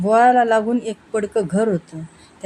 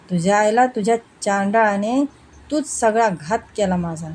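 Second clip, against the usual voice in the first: mock angry shout. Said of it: "तो कसाबसा मोठ्यानं म्हणाला".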